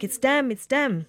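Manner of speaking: lightly acted thrill of recognition; mildly excited retelling. Woman realising the missing men are calling, excited. Retelling the long-awaited phone call.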